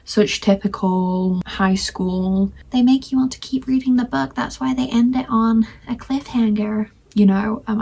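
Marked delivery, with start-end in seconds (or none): 2.7-6.9 put-on a light, offhand American accent, pitched higher; a half-hearted American accent, lifted in pitch. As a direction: toss off a so-so American accent, higher than usual. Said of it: "I don't know why I put on American accent".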